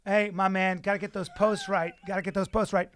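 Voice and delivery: mock breezy bro voice; mocking Brendan's text. The speaker mocking his co-host's text, mock breezy. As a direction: parrot his cheesy text back at him. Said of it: "don't ever text me this again".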